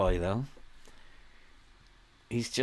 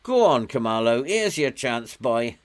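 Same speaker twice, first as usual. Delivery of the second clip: cheering on; 4 dB louder than usual. Real, not acted. Urging player on during match.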